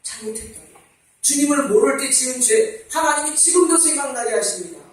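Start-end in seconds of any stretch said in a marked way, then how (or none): 0.0-0.7 voiced but much softer; soft spoken repentance. Shown as a demonstration. Preacher repeats the confession softly and voiced. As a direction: say it softly, head bowed. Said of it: "회개해야 합니다".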